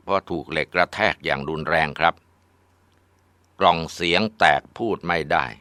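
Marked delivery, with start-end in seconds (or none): 2.2-5.5 stunned disbelief. Acted. Mother repeats news, stunned.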